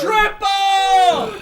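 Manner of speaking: shouted triple; hype shout. Real, not acted. Friend hypes the triple dab, a shouted call.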